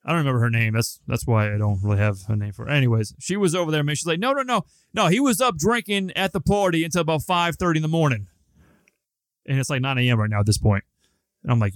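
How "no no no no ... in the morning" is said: much higher mock whiny girl voice; imitating the girlfriend who tattles to the cop, high and mocking. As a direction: mimic the snitch, high and whiny. Mocking girlfriend ratting him out.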